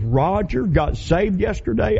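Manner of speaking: imitating her voice catching on tears; tearful disbelief. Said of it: "got the cry and said".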